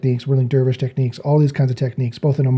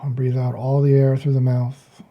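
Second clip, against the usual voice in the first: softer, calm instructing voice; guided meditation; 7 dB quieter than usual. Real, not acted. Meditation teacher guiding listeners to breathe out, softly guiding. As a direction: talk them gently into breathing.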